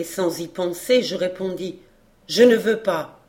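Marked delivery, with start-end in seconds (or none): 2.3-3.2 blurted refusal. Acted. Boy blurts out refusal without thinking.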